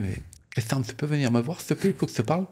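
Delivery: a light, courteous impression of the mentor calling him over; imitating Pierre Villepreux. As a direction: player mimics his coach asking to talk. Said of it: "je veux le refaire parce que j'adore le refaire, cet homme".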